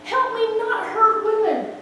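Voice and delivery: high-pitched, anguished retold plea; sobbing confession. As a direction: imitate a tearful confession, voice pushed high. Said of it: "he is still sobbing".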